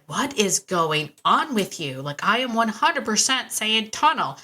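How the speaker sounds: slow, emphatic mock exasperation; exasperated. Handler to dog after a repeated mistake, exasperated. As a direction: retell it word by word, in disbelief at the dog.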